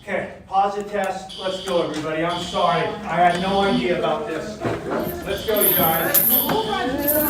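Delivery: shouting over fire alarm. Real, not acted. Fire alarm going off, class.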